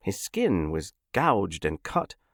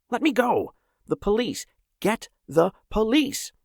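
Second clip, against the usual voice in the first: desperate yelling; 13 semitones higher than usual. A narrator's reading. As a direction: yell for help while struggling. Struggling free, calls for police.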